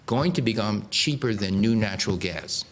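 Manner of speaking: "new" leaned on before "natural gas"; stress on new. Shown as a demonstration. Lecturer stressing "new" to the audience, firm stress. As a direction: press the word "new" firmly. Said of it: "I emphasize the word new".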